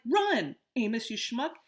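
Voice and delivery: loud, high mock urgency; imitating himself. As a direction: replay the panic laughing. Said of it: "I was like".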